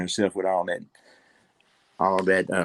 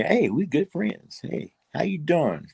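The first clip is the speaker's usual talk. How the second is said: friendly; 7 semitones higher than usual. Acted. Acts out making up with someone.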